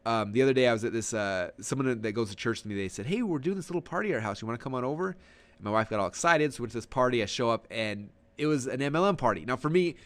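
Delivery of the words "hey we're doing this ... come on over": lightly voiced upbeat invite, higher at the start; friendly invitation. Church friend inviting him over, lightly acted friendly invite. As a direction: toss out a casual party invitation. Voicing a casual party invitation.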